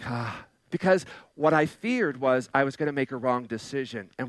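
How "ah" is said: soft, low "ah" of relief; relieved sigh. Retold or imitated. Preacher retells relief at God's answer, soft relieved sigh. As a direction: let out a quiet, low sigh.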